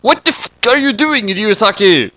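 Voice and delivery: high strained shout. Acted. Dad shouting at L as he writes in the notebook, high and strained. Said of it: "shouted Light's dad".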